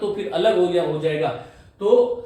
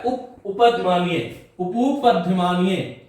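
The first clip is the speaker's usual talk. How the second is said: slow syllable demo; much slower than usual. Shown as a demonstration.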